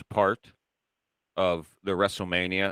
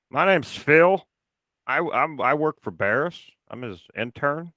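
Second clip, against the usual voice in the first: high, put-on young intern voice; mock intern voice; 5 semitones higher than usual. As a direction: play the intern, pitched up and eager. Imitating the intern at the door.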